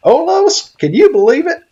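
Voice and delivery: high loud delighted call; excited. Real, not acted. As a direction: share the thrill with a friend. Calls companion excitedly.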